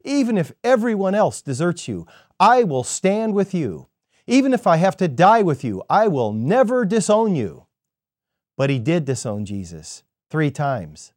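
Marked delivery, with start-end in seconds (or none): 0.0-7.7 raised, earnest vow, pitched higher; vigorous protest. Retold or imitated. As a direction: insist hotly that you will stand by him. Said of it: "Peter argued vigorously".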